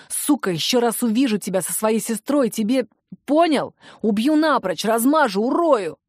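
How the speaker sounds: heated threats building to the end; angry threats. Acted. Brother standing over his sister's boyfriend, angry threats. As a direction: lay into the rival, threat after threat.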